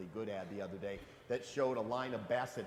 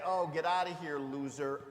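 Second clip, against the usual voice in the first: hammed-up finger-wagging brush-off, louder; mock dismissive scolding; 3 semitones higher, 8 dB louder than usual. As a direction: play a scornful God shooing a sinner away, mockingly. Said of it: "wag his finger at you and say".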